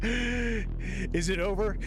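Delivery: slow, laughing question. Real, not acted. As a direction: ask it through laughter. Laughing while asking.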